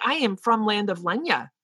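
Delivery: a light Australian lilt, teasing a friend; Australian lilt impression. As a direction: mimic her faded Australian lilt, half-joking. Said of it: "this Australian lilt".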